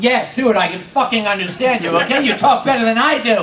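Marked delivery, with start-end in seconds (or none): none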